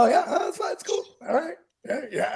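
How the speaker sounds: mock-polite brush-off on the phone; affected work voice. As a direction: put on an easygoing customer-pleasing voice. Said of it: "why I affect that voice".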